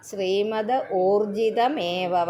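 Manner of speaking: ശ്രീമദ് ഊർജിതമേവ with a lengthened ഊ; ശ്രീമദ് and ഊർജിതമേവ separated, ഊ held long; long ū in ūrjitam. Shown as a demonstration. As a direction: draw out the ഊ of ഊർജിതമേവ. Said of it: "അതും ഊ ഉണ്ട്".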